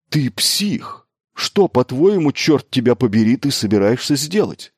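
high, loud exasperated demand; incredulous, swearing outburst; outraged disbelief. A narrator's reading. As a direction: explode at a madman's plan. Engineer outraged at the mad plan.

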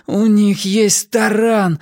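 high, drawn-out moan; groaning dismay. A narrator's reading. Wylan sees the guards' battering ram, dismayed groan. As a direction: wail it slowly in dismay. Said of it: "простонал Уайлен".

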